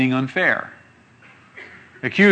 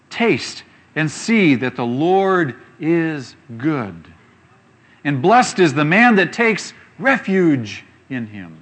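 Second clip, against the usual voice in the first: slow, louder reading of the verse; scripture reading; 3 dB louder, slower than usual. Acted. Preacher reads a psalm to the congregation, slow and solemn. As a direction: read the verse out slowly with weight.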